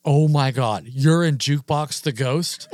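retold gasping disbelief, stretched out; imitating an amazed fan; starstruck freak-out. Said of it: "freaks out, absolutely freaks out".

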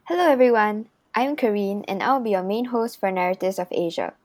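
measured, evenly paced host read; scripted podcast intro. Acted. Student host welcomes listeners to the podcast, scripted intro read. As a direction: read out a prepared show introduction.

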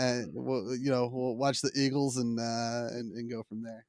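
put-on half-hearted Philadelphia accent; bad Philly accent. Host planning an Eagles outing with the guest, bad Philly accent. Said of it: "tried to do a bad Philly accent".

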